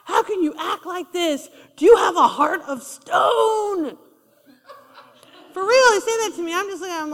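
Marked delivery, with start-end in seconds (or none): 0.0-4.0 high, slow, hurt accusation; mock accusing cry. Preacher imitating a person going off on him, mock anguished. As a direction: wail the accusation like a wounded friend. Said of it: "They're like".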